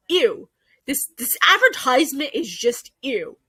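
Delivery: grossed-out groan of ew; disgusted ew. Real, not acted. Reviewer repulsed by the ad, a disgusted ew. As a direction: let the disgust curl the word ew. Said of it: "I feel grossed out and disgusted".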